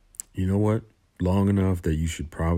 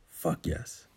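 soft murmur; 2 semitones lower, 6 dB quieter than usual. Acted. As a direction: breathe it out softly. Soft echo after shout.

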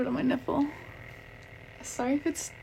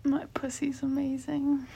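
whispering. Real, not acted. Whispered aside.

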